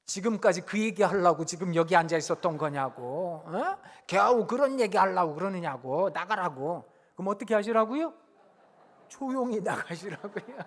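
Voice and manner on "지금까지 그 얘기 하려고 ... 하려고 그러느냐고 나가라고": put-on annoyed teen outburst. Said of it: "애들이 또 발작합니다".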